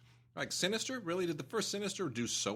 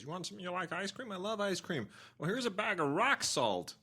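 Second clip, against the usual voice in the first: Patton Oswalt bit; 10 semitones higher than usual. Retold or imitated. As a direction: quote the bit in a raised, mock-friendly voice. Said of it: "segment where he says".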